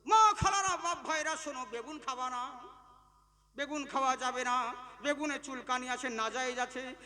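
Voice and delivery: lightly voiced preacher calling out to the women, then settling in; mock fatwa proclamation. Preacher mocking a maulvi proclaiming a fatwa, lightly hammed. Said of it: "ফতোয়া দিয়ে দিল".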